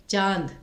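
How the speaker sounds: चांद said slowly with the vowel from the throat, little through the nose; throat-voiced vowel. Shown as a demonstration. Teacher showing students चांद, throat-heavy nasal vowel. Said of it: "गले से अधिक आवाज़ निकल रही है".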